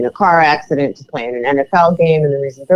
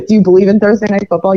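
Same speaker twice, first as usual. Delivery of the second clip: mock incredulous; 4 semitones higher, faster than usual. Mocking conspiracy one-upping.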